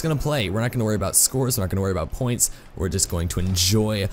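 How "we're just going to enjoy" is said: hammed-up British gentleman; bad British accent. Gamer playing gentleman's Rocket League, mock British accent. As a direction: play a jolly, polite British gent, badly. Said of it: "my bad British accent".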